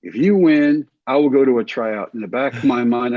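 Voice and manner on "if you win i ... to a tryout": raised-voice concession. Retold or imitated. Coach caves in to players.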